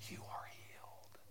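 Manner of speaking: very soft, slow whisper. Acted. Preacher voicing the Lord's whisper of healing, whispered. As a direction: breathe each word out slowly, without voice. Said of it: "You can hear his whisper saying".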